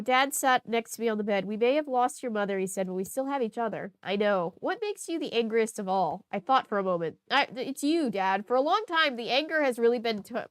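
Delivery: steady reading-aloud voice; story narration. Acted. Reader narrating the diary, steady read-aloud voice. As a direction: read the diary entry evenly.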